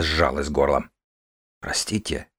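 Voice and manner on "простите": soft whispered apology; barely voiced, sorry. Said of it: "прошептал я".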